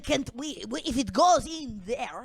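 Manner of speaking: put-on light Russian accent. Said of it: "You were doing a Russian accent to him".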